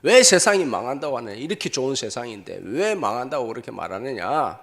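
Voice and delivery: imitated indignant complaint, loud at the start; retold angry protest. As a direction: protest like an offended crowd, half in earnest. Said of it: "하면서 막 화를 냅니다".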